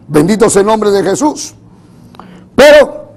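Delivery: emphatic sermon cadence; preaching. Real, not acted. Preacher assures congregation of victory despite illness, preaching. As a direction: proclaim it to the congregation with force.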